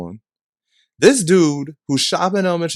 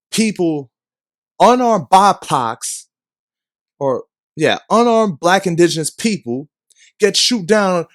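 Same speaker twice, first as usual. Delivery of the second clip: angry rant; 3 semitones higher than usual. Real, not acted. Continues heated rant.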